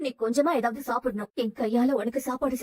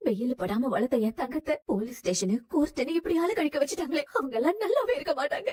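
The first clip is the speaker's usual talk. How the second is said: tearful lament; 3 semitones higher than usual. Acted. Mother laments daughter's court ordeal.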